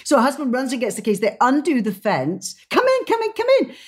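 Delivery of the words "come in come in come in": very high, excited imitation; mimicking the thrilled owner calling them in; eager invitation. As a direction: gush it like a thrilled host. Italian woman eagerly inviting them in.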